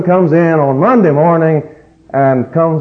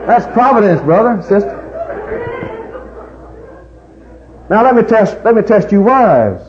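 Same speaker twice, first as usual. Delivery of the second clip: preaching at full force; preaching call; 10 semitones higher than usual. Real, not acted. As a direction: rouse the congregation. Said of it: "preacher calling out to congregation".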